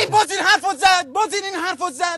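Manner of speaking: loud fed-up father complaining; exasperated father. Acted. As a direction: huff like a fed-up dad.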